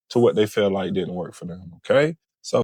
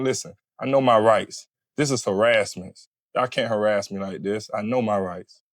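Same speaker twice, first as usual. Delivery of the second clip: hostile refusal. Shown as a demonstration. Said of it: "instead of just saying".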